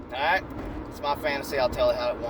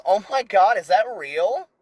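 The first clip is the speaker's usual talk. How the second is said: mock surprise; 4 semitones higher, 5 dB louder, slower than usual. Barista surprised.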